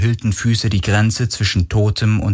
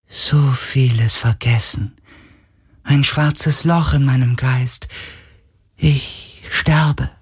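hohe, langsame, schwache Geisterstimme; klagender Geist; 6 semitones higher, slower than usual. Acted. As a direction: wie ein sterbender Geist klagen. Geist klagt. (hohe, traurige Geisterstimme)

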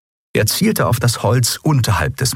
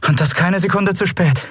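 higher-pitched, heartfelt thanks; sincerely grateful; 10 semitones higher than usual. A narrator's reading. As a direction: answer gratefully, voice lifted. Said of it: "aufrichtig dankbar". (aufrichtig dankbar, mit gehobener Stimme)

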